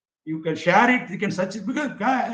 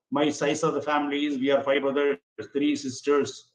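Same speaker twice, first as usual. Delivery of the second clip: lower, subdued recital of a model introduction; sample self-introduction; 5 semitones lower, 3 dB quieter than usual. Shown as a demonstration. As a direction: recite a practice introduction in a low, even voice. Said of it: "just make an introduction about yourself". (धीमे, नीचे सुर में नमूना परिचय)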